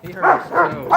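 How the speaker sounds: high, cooing sympathy for the dog. Real, not acted. Owner babying her dog about his sore toe, high coo. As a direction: coo it high like to a hurt puppy.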